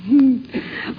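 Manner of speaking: amused, mocking laugh through the line; laughing scorn. Actress mocking an old flame's vanity with laughter. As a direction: laugh him off as she says it.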